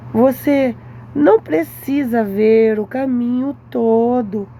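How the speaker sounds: slow, solemn sermon cadence, each phrase weighed; slow preaching. Acted. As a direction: preach it slowly, letting every line land. Slips into sermon-like exhortation.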